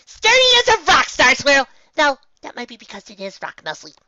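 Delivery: high, loud cheerful call. Acted. Pinkie calling down to Star Swirl from the barricade. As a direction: shout it down from the top of the wall.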